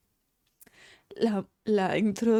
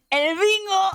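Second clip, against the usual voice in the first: much higher, louder ¡El bingo!; excited exclamation; 10 semitones higher, 5 dB louder, slower than usual. Real, not acted. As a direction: cry out in delight at finding it. Encuentra el bingo. (exclamación entusiasmada)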